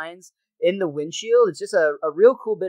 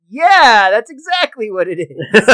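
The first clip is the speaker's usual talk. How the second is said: Wiggum voice; 3 semitones higher, 11 dB louder than usual. Retold or imitated. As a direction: cover a lie with bluster. Wiggum hesitant lie.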